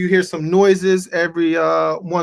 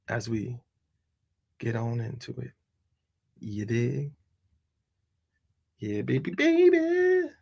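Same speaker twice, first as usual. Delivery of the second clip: much softer, low murmur; fading off; 6 semitones lower, 8 dB quieter than usual. Acted. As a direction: drift away under the beat. Trailing off under beat.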